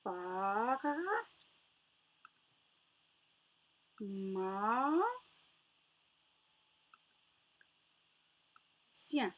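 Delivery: "Phare. Ma. Sien" stretched with long gaps; three separate syllables, the first two gliding upward. Shown as a demonstration. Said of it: "Je répète".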